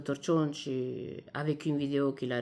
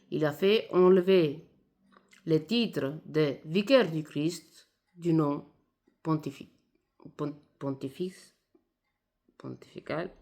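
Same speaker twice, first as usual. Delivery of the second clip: Italian accent. Real, not acted. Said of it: "Excusez-moi mon français, je suis italienne".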